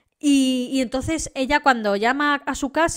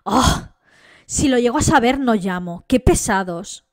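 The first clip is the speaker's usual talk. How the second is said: loud, exasperated mock scoff; loud imitated brush-off of a crying friend; brazen annoyed; 6 dB louder than usual. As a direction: blurt it out like she's fed up with them. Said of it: "con todo su coño, coge y dice".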